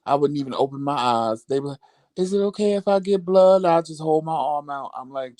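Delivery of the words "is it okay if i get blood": lightly voiced nurse asking permission; a slightly higher, polite imitated nurse; 살짝 흉내 낸 간호사 목소리. Acts out nurse asking for blood.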